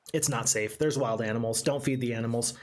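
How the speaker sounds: stern safety reminder to viewers; public service announcement. Real, not acted. Streamer warns tourists, low and firm. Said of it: "my public service announcement".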